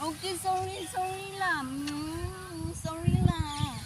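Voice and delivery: sweet-talking a sulking dog, drawn out at the end; affectionate, wheedling apology; coaxing apology. Real, not acted. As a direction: coax the pet with a tender sorry. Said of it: "Kailangan mo talagang lambingin ulit".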